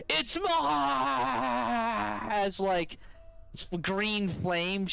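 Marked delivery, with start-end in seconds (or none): 0.1-2.2 high, small skull voice wailing; possessive whining. Acted. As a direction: wail it as the skull dies. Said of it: "you hear a".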